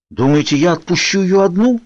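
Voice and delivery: high, incredulous question; astonished. A narrator's reading. Edward refusing to let Bella go alone, astonished. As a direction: exclaim it with pitch way up. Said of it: "изумлённо воскликнул Эдвард".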